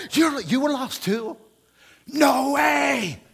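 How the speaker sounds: high, loud playful shout; hammed-up amazement at a kindred sinner; delighted mock shout of recognition; mock surprise. Mock exchange with fellow believer.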